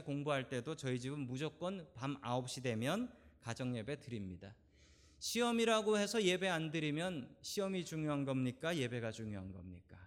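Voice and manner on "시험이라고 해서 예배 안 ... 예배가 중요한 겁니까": a pointed question rising at the end on 시험이라고; rhetorical challenge. Acted. Pastor pressing the congregation with a pointed rising question.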